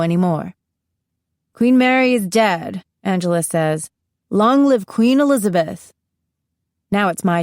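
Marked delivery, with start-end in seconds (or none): 1.5-2.8 higher proclaiming voice; proclamation. A narrator's reading. Angela announcing the succession to the class, formal proclamation. 4.3-5.9 higher proclaiming voice; proclamation. A narrator's reading. Angela announcing the succession to the class, formal proclamation.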